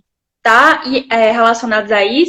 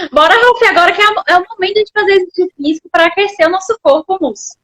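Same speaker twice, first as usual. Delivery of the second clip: high, fast, upbeat rallying call; excited cheer; 5 semitones higher, faster than usual. Real, not acted. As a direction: pump him up to get moving. Cheering a viewer on to exercise. (animada, chamando pra ação)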